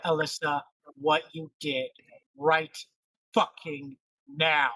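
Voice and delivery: halting, word-by-word demand; deliberate threat. Acted. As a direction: space out the last words as an ultimatum. Nyla threatens Timbers against wall.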